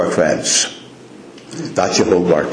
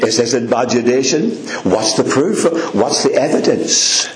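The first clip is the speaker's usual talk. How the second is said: imitating a sceptic. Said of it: "He would say".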